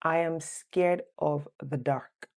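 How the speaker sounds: careful slow dictation for students; slow, clear quiz voice; slow quiz reading. Shown as a demonstration. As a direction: read the quiz sentence slowly and clearly. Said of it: "Number one".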